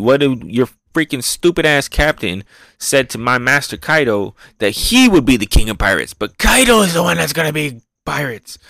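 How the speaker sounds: lightly voiced villain taunting a beaten girl. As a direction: sneer at the captain's dream. Retelling manga, villain taunting.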